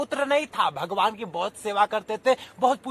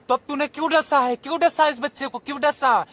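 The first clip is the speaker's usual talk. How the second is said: quick, higher, pressing why; fast accusing demand; 3 semitones higher than usual. Acted. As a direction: demand an answer from the snake. Snake charmer presses the snake.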